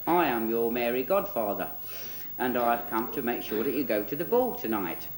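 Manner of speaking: lightly put-on Australian twang; mock Australian fairy godfather; Keith Harris. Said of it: "in his sort of Australian twang".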